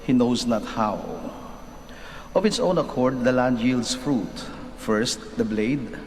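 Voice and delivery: solemn scripture reading; gospel reading. Acted. Reads the gospel aloud.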